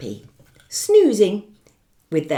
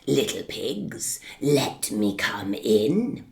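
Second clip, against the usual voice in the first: polite wolf; 6 semitones lower, slower than usual. Acted. Wolf asks again.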